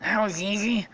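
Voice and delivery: lightly voiced, slightly high cartoon toad; a hint of a squeaky toad. Toad to another after the fight, lightly squeaky. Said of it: "one toad says to the other".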